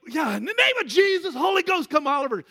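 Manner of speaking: high, loud charismatic invocation; fervent loud prayer. Retold or imitated. Oliver prays over Marcus in church, loud fervent invocation. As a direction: call down the Holy Ghost at full force.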